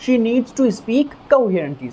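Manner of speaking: each word spoken slowly and clearly; slow model sentence. Shown as a demonstration. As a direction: read it out slowly, word by word, like a teacher dictating. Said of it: "तो यहाँ पर madam ने क्या कहा?".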